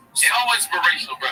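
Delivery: Schultz impression. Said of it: "Schultz is his character".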